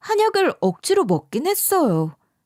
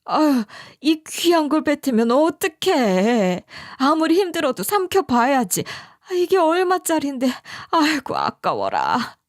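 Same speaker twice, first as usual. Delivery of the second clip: tutting mother-in-law; 4 semitones higher than usual. Retold or imitated. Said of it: "이렇게 답하시더라고요".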